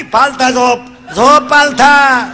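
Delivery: put-on doctor ordering the boy to lie face down; slow loud order. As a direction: drag out the order sternly.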